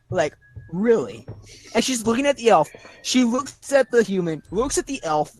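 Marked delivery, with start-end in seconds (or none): 0.7-1.3 lower, deadpan one-word question; understated disbelief from a staring commander; unimpressed look. Acted. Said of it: "her face just becomes like".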